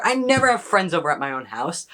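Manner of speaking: ordinary delivery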